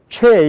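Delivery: plain Korean 최 syllable; Korean-style sound. Shown as a demonstration. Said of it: "최가 아니라 최얼이란 말이에요".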